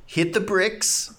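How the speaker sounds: drawn-out, high mock yell; stretched-out rallying yell, played for fun; hypothetical yell. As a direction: call it out slowly as a pretend battle cry. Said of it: "I would have yelled".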